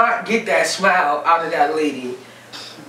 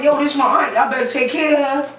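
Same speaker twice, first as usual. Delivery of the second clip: protective niece; 7 semitones higher than usual. Retold or imitated. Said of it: "I'm walking up to all the techs like".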